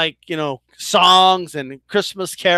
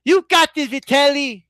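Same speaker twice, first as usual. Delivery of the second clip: bad Mike Tyson impression; 4 semitones higher than usual. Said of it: "horrible Mike Tyson impression".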